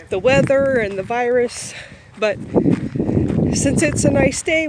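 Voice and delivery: panting while walking fast; out of breath. Real, not acted. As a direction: talk between quick breaths. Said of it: "I'm out of breath because I'm walking fast".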